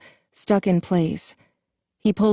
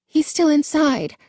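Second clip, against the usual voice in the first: horrified; 10 semitones higher than usual. A narrator's reading. Jessica horrified about Carlton.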